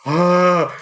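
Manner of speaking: loud mock exhalation; imitated breath. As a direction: mimic someone breathing out with an 'ah'. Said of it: "I saw you breathe".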